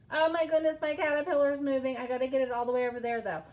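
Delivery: loud, rushed burst of excitement; excited. Real, not acted. Teacher to pupils as her caterpillar moves, excited. Caterpillar starts moving in demonstration.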